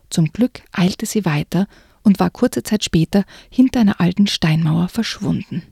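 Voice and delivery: hushed, tense storytelling; suspenseful story narration. Acted. Reading a spooky book to listeners in a suspenseful narration. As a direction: read it like a creeping thriller.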